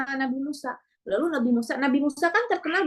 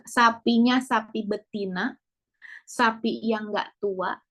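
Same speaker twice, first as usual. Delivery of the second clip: slow, spelled-out command; slow deliberate instruction; 4 semitones lower, slower than usual. Retold or imitated. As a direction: lay out each condition slowly, then hurry them. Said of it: "kata Nabi Musa".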